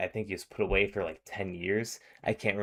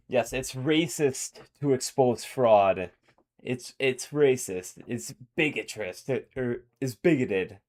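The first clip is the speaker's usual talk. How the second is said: sarcastic mockery; 4 semitones higher, 3 dB louder than usual. Real, not acted. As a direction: drag out racist with scorn. Mocking the accusation of racism.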